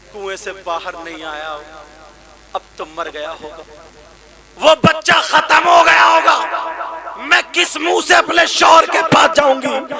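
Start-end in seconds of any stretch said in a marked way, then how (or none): 4.6-9.9 loud anguished lament; a grieving mother wailing by the well. Acted. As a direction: cry out the mother's despair. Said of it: "رو رو کر کے کہنے لگی".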